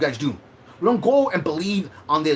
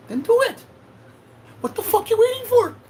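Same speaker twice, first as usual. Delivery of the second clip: much higher, louder furious yell; angry shout; 5 dB louder than usual. Real, not acted. Shouting at Terry to make her own video, furious. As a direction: dare them, yelling.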